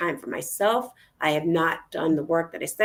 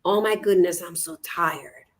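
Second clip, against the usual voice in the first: weary groan; 3 semitones lower than usual. Retold or imitated. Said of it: "I looked in the mirror and I said".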